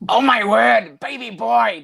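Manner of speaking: a hammed-up cry after a lost eye; mock Bisping panic. Bisping searching for his eye.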